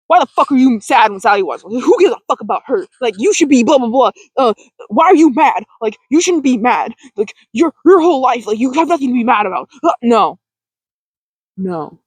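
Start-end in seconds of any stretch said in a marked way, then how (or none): 0.1-9.7 harsh self-scolding. Shown as a demonstration. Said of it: "You know, not".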